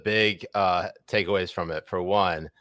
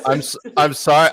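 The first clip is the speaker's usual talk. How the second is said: Yiddish grandmother; 6 semitones higher, 6 dB louder than usual. Retold or imitated. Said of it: "I sound like a Yiddish grandmother".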